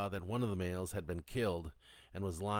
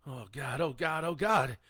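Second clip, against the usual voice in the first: panicked cry building louder and higher; top-of-lungs yell; 6 semitones higher, 7 dB louder than usual. A narrator's reading. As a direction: start raised and climb to a loud yell. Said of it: "he yelled at the top of his lungs".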